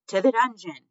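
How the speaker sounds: high, loud mob cry; shouted. A narrator's reading. Mice condemning Despero to the dungeon, shouted. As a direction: shout it like a crowd condemning someone. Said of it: "shouted the mice".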